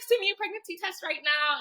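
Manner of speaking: high, loud, flabbergasted order; retold urgent demand. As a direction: demand it as the stunned best friend. Friend demands proof, retold.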